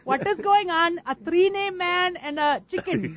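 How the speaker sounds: put-on Indian accent. Co-host showing the host the accent, mock Indian accent. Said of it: "like the Indian accent, right".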